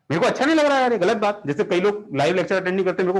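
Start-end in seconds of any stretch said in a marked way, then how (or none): 0.1-1.4 mock upset. Real, not acted. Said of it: "emotional हूँ".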